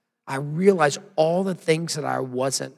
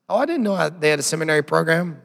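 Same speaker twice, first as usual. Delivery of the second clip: condescending pastor; 5 dB louder, faster than usual. Retold or imitated. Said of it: "when they say".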